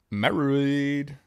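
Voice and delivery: married said high and loud; a sudden high, loud blurt; odd high voice. Real, not acted. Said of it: "I don't know why I said it like that".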